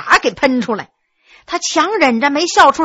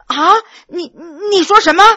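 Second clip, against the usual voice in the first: startled; 4 semitones higher than usual. Acted. Scholar jolted by the accusation, startled. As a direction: jump at the news. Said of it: "庄有功果然吓了一跳".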